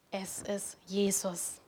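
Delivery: langsam und fast geflüstert; hauchend, ganz langsam: es ist Jesus; leise bekennend. Real, not acted. Kernaussage der Predigt, leise bekannt. (leise, langsam, ehrfürchtig geflüstert)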